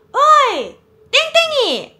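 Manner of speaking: high, loud shout across the street; calling out. Retold or imitated. Boys shouting for her ex across the street, loud call. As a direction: yell a name from far away.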